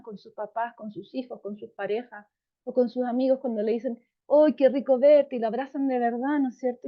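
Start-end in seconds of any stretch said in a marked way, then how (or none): 4.3-5.4 warm greeting. Retold or imitated. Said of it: "Y usan ese tono".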